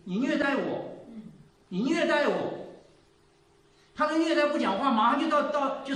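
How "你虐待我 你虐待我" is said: 学丈夫高声指控; 拔高嗓门模仿丈夫喊冤; 丈夫喊虐待. Retold or imitated. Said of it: "那个丈夫就说". (模仿丈夫高声喊你虐待我)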